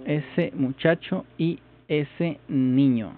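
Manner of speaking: drawn out word by word to practise it; slow down and say each word deliberately; learner's slowed practice phrase; slow careful repeat. Shown as a demonstration.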